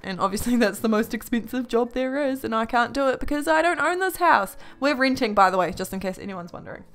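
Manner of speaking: breathless, gasping between phrases; catching breath between words. Real, not acted. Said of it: "I'm out of breath".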